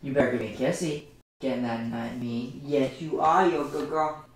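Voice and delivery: a hint of sing-song pet talk. Real, not acted. Streamer coaxing her dog for a kiss, light coo.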